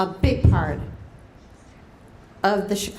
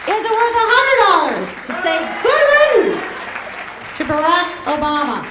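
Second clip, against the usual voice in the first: high, loud rallying cry; rally shout; 8 semitones higher, 5 dB louder, faster than usual. Real, not acted. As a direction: belt it out at the crowd's peak. Peak of fundraising appeal.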